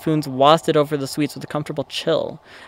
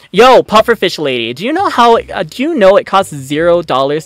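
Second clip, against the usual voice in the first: loud telling-off; 3 semitones higher, 5 dB louder than usual. Acted. Yelling at the rich patron.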